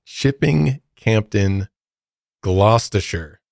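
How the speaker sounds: Chipping Campden slow and deliberate, Gloucestershire as GLOSS-ter-sher; slow, careful Chipping Campden, Gloucestershire; careful pronunciation. Shown as a demonstration. Host tries the place name carefully for the cohost. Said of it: "Not bad".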